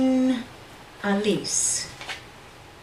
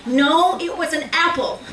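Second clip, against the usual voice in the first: laughing answer; 6 semitones higher than usual. Acted.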